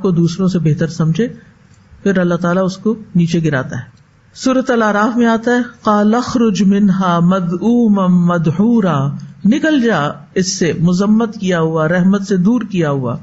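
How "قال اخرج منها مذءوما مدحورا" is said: slow, drawn-out chanted recitation; slow melodic Quran chant; Quranic recitation. Acted. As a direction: intone the verse with measured tajweed.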